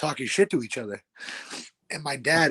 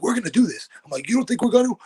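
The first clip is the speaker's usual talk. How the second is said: retold challenge; 9 semitones higher, 4 dB louder, faster than usual.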